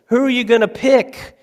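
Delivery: high, emphatic rhetorical push; rising fervor. Real, not acted. Preacher challenging the congregation, rising and emphatic.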